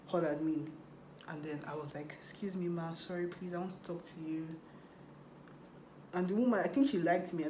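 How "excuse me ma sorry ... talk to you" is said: softer, respectful request; polite soft plea. Retold or imitated. To the hall admin, asking softly and politely. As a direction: ask gently and deferentially.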